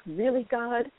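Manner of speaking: retold "why me?", leaping high on the final why; why-me protest. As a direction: plead your case to God, half in jest. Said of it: "have I done the "why me?" question".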